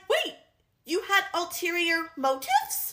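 mock surprise. Friend mocking Tamlin's naive surprise, sarcastic fake shock. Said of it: "You're like".

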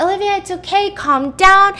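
put-on a mother trying to hush her panicking child; frantic reassurance. Mother calms crying daughter in car.

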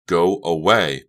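loud, firm order; forceful, angry dismissal. A narrator's reading. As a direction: raise your voice to get through. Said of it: "Becca repeated more loudly".

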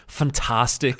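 punchy imitation of Ryan's fantastic; like Ryan says it. Co-host mimicking Ryan's catchphrase for the podcast, light imitation. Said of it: "you gotta do it like Ryan says it".

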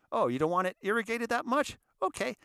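high, sing-song sarcastic medic voice; mocking medic. Medic mocking the stubborn airman, high sarcastic sing-song. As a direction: tease him in a high mock-sweet tone.

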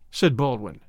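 usual speaking voice

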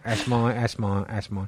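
mock British accent. Repeats the possessive British bit.

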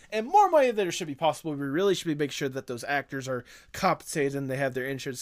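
big shot producer. Pretend. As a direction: pitch it like a rich mogul. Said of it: "Big Shot Mister Moneybags".

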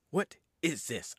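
slow, spaced-out repeat; drawn-out disgust. Retold or imitated. Demon appalled by his new body, slow mock disgust. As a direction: stretch each word in mock disgust.

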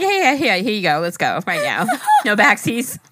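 eager quote through laughter; laughing imitation. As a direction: hand it over eagerly while laughing. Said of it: "He was like".

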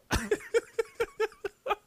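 high, helpless cackle; high-pitched laugh. Real, not acted. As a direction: laugh hard at the top of the voice. Cracks up teasing friend.

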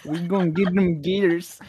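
put-on Southern American bayou accent. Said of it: "I can try".

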